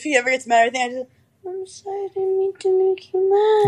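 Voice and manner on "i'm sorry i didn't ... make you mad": cute voice. Shown as a demonstration. Calming an angry date, high cute voice. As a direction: apologise sweetly, pitched high. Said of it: "I'll talk in that voice".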